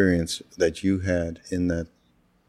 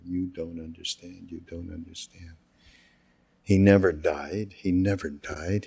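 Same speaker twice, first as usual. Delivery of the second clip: hushed retelling of a weeping teacher; murmured, grieving insistence, lightly acted; retold tearful insistence; 3 dB quieter than usual. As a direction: imitate tearful pleading, softly and repeatedly. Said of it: "And there he was crying".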